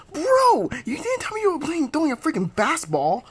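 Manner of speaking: high whiny complaint. Acted. Hurt friend whining at the thrower, high. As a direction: squeal the complaint. Complaining after being hit.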